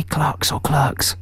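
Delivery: first "Clerks" like Clarks, second "Clerks" like clurks; two pronunciations contrasted. Shown as a demonstration. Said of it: "I never know whether to say".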